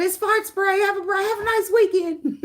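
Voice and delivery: high, laughing through the words; gleeful, barely holding in laughter; laughing announcement. Retold or imitated. Telling coworkers after the fart spray, high and laughing. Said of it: "I said".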